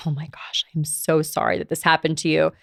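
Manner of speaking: soft, hushed sympathy; quietly imitating a consoling friend; sympathetic friend. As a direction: gently voice a friend's condolence, softly. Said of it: "and they're like".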